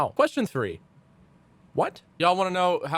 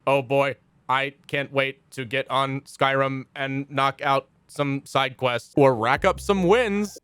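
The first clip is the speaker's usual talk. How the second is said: robot mimicking a human; slower than usual. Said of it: "a robot ... mimicking a human".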